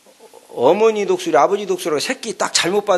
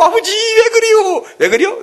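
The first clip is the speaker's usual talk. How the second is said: whining eaglet; 4 dB louder than usual. Acted. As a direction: flap and wail to your father. Eaglet flapping, crying to father.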